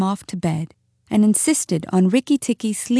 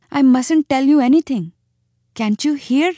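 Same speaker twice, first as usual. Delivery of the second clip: high, anxious protest; urgent warning in a small animal's high voice; frightened muskrat; 6 semitones higher, 4 dB louder than usual. A narrator's reading. Frightened muskrat refuses to tell.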